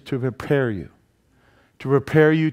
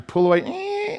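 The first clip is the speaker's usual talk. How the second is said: laughing; 5 dB quieter than usual. Real, not acted. Laughing at rubber band image.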